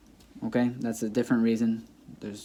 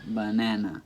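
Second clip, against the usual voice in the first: Banana with the middle syllable stressed, "ba-NA-na"; Banana in its normal English stress; 3 dB quieter than usual. Shown as a demonstration. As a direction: put the weight on the middle of Banana. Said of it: "You know what's in the middle".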